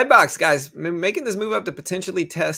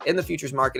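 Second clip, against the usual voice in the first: fast ad read. Acted. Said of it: "That auctioneer voice you got".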